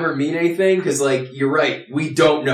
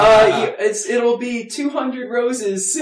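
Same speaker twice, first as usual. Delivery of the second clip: put-on high, slow girly voice; laughing falsetto woman; man doing a woman's voice; 10 semitones higher, slower than usual. Joining girl-voice joke.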